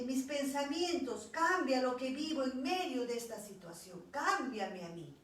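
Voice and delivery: loud, pleading prayer to God; fervent plea. Retold or imitated. She begs the Lord to change her heart, pleading loudly. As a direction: cry out each cambia as a plea. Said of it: "Le empecé a decir".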